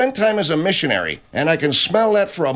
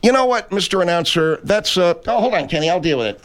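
indignant; 2 semitones higher than usual. Acted. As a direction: tell him off. Scolding the announcer.

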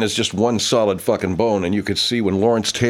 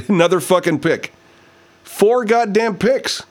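high, louder disbelieving exclamation; real excited outburst; 12 semitones higher, 4 dB louder than usual. Real, not acted. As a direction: build to a high, stretched-out cry. Reacting to another interception.

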